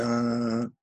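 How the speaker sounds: lightly imitated newsreader, slow; slow up-and-down announcer cadence; radio news announcer. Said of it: "the way they do it up and down".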